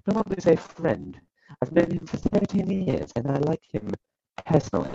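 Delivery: put-on reading the quote with a light British accent; a hint of a British accent on the quote; lightly British-accented quote reading; slight British accent. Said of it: "British, British accent all of a sudden".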